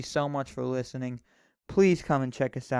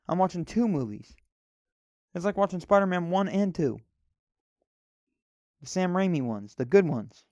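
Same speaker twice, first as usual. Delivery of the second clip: indignant rant; 5 semitones higher than usual. Acted. Spencer protests the friend's advice, high indignant whine. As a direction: insist on your rights, pitched up and pushy.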